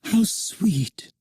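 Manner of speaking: put-on high, delighted girlish cry; Wendy crying out. A narrator's reading. Wendy watches Peter fly round the room, delighted. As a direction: coo it with sheer delight. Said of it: "cried Wendy".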